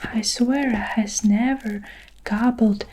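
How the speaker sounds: a giant desperately swearing innocence, hushed; whispered screech. Acted. Giant pleading with Jack not to hurt him, whispered screech. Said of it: "he screeched".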